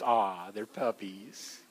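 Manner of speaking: slow, low cooing at cute puppies; drawn-out "aww" for the audience; mock cooing. Pastor mimics the crowd cooing at puppies. Congregation cooing at puppy slides.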